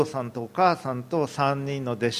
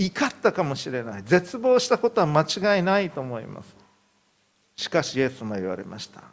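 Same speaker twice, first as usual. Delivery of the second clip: ordinary talk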